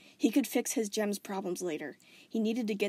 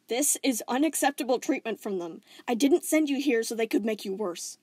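louder, firm declaration; 2 semitones higher, 7 dB louder than usual. Acted. Steven declaring he'll confront the Diamonds, firm. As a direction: lay down the decision. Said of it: "Steven said firmly".

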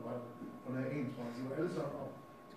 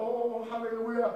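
long, drawn-out high hallelujah; loud, slow imitation of rapt worship; mock worship; 9 semitones higher, 9 dB louder, much slower than usual. Acting out worship before the horn blast, mock worship. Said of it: "så står jeg der og tilbeder".

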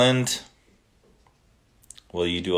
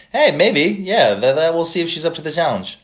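much higher, louder, playful hedge; amused excitement; 8 semitones higher, 5 dB louder than usual. Real, not acted. To fans suggesting his wife read a poem, excited and amused. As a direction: tease about setting his wife a challenge. Reacting to poem challenge for Ellen.

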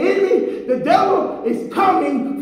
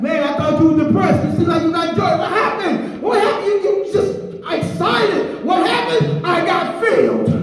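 excited friend; 4 semitones higher than usual. Retold or imitated. Friend asking what happened, mock amazed. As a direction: act out a stunned friend. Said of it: "you be like".

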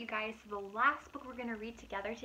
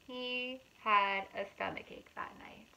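put-on reading to children; 4 dB louder than usual. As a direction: read it aloud to little kids. Reading picture book aloud.

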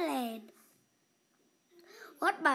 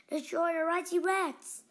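angry cry; 5 semitones higher, 5 dB louder than usual. A narrator's reading. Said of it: "he cried as he paddled on".

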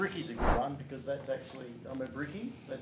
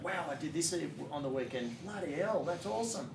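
mock impressed; 3 semitones higher than usual. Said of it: "you've said something like".

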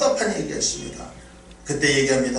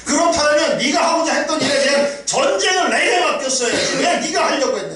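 God's rebuke; 5 semitones higher than usual. Acted. God rebukes the complaining believer.

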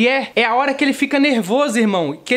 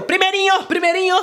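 eager classroom call; 7 semitones higher than usual. Retold or imitated.

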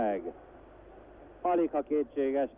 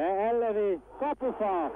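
excited commentary; 7 semitones higher than usual. Real, not acted. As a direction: react to the woodwork, higher. Shot hits the post.

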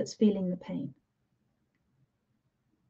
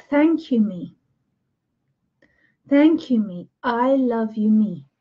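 tender gratitude. Shown as a demonstration. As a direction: thank your own heart gently. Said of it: "and say".

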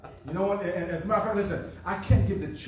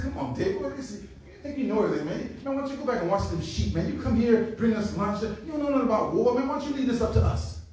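higher, fast, scornful brother; scolding big brother; 3 semitones higher, faster than usual. Acted. Older brother mocking David, fast scornful higher voice. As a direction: brush off the little brother, fast.

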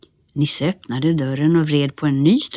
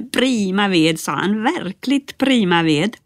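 delighted; 4 semitones higher than usual. Acted. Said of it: "Nisse var så glad att han hoppade".

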